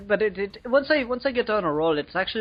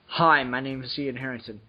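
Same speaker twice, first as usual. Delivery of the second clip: put-on Irish accent; 5 semitones lower than usual. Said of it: "I put on an Irish accent".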